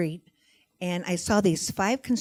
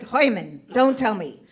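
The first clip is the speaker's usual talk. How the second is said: put-on Yiddish accent; 4 semitones higher, 4 dB louder than usual. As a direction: land the punchline as Esther. Esther's punchline.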